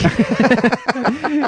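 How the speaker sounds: laughing through the words, slow. Real, not acted. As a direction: laugh while talking. Laughing at the joke.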